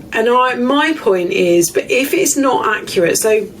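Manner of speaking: talking through the hiccups; words caught by a hiccup. Real, not acted. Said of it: "excuse me, I've got the hiccups".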